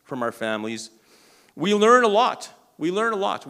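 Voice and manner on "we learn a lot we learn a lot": loud, high emphatic preaching. Real, not acted. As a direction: drive it home to the crowd.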